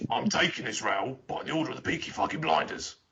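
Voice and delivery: hammed-up Brummie gangster child. Child throwing their weight about at nursery, mock Brummie. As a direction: put on a Peaky Blinders Brummie accent. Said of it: "my child would just start shouting".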